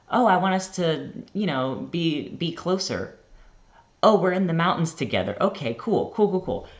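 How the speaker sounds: excited. Retold or imitated. Retelling her own excited thoughts.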